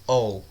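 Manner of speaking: "O" pronounced as the English letter name "oh"; zero lido como O. Shown as a demonstration. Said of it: "ele é pronunciado como O". ("O" pronunciado como "ou", em inglês)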